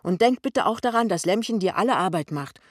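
loud, exasperated scolding; irritated son. A narrator's reading. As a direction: argue back forcefully. Son argues back at mother.

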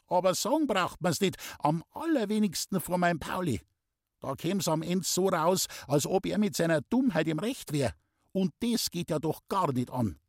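fussing, half-conceding mother; grumbling old mother. A narrator's reading. Traudl grumbling about Pauli.

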